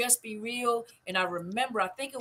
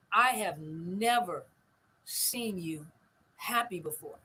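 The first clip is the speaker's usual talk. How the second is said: slow, lower, with pauses between phrases; measured retelling of a daughter's words; solemn retold observation; 4 semitones lower, slower than usual. Daughter telling her mama in the car, slow and solemn.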